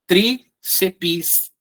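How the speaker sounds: tríceps in two beats, trí then ceps; two-syllable split. Shown as a demonstration. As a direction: pause after trí in Tríceps. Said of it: "São duas sílabas só".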